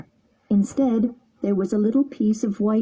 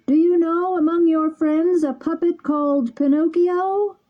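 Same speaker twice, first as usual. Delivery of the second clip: a hint of a calling bird, raised pitch; lightly voiced pigeon; 9 semitones higher than usual. A narrator's reading. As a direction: call down kindly as the pigeon. Pigeon speaks.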